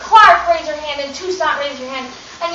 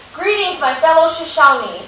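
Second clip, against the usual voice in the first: Sacagawea's greeting; 3 semitones higher than usual. Retold or imitated. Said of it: "until you hear Sacagawea say".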